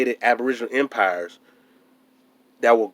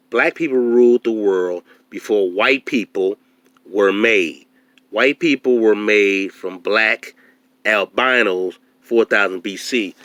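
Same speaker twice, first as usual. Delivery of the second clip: reading aloud; slower than usual. Shown as a demonstration. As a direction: read it out slowly, letter by letter. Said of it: "And I'm gonna read it from here".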